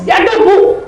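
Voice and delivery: high, loud, emphatic assurance; imitated firm reply. Caller stops crying and confirms a motorbike, imitated firm reply. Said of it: "tapi tegas".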